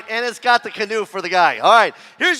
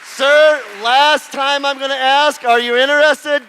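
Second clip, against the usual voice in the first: calling out; 3 semitones higher, slower than usual. Real, not acted. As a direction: call out to him, drawn out. Auctioneer calls to a reluctant bidder.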